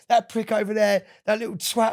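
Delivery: mock a lad picking on you in a Britpop band's accent. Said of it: "accent that he has".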